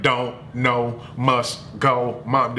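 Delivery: imitating a brother talking like a robot; halting robotic chant, one word at a time. Retelling how the boy begged mom, lightly robotic. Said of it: "The boy turned into a robot".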